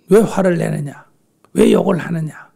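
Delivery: loud, indignant mock challenge; indignant retort. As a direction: act out taking the bait. Reacting angrily as we would.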